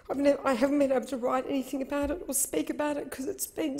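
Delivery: breath catching mid-sentence; gulping air between words; catching breath midword. Real, not acted. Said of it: "I'm crying".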